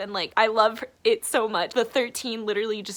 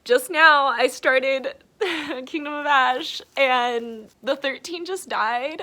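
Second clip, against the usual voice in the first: real tearful voice pushed louder, slowing; close to crying; 3 semitones higher, 4 dB louder, slower than usual. Real, not acted. Reader telling viewers the thirteen died, close to crying. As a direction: fight back tears as you break the news. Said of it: "I'm gonna cry again".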